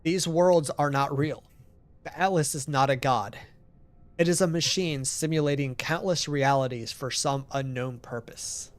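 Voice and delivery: measured, declarative warning; solemn game narration. Acted. Narrator warning travelers the worlds are not real, solemn read-aloud. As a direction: read it as a grave message to travelers.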